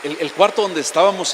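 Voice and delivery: preacher shouting glory mid-sentence; overcome with excitement. Real, not acted. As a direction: shout it out, swept up in joy. Preacher overwhelmed reliving the miracle.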